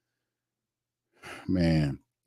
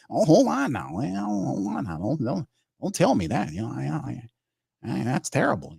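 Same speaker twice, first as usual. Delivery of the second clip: much higher, laughing protest trailing softer; mock-offended protest; 7 semitones higher, 3 dB quieter than usual. Real, not acted. Streamer protesting a viewer's joke about his voice, high and playful. Viewer says he sounds like dope.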